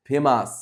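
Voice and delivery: first syllable ফে of ফেমাস stressed. Shown as a demonstration. Teacher shows pupils ফেমাস with stress on ফে. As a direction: lean on ফে in ফেমাস, let মাস fall. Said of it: "জোর দিয়ে পড়তে হবে".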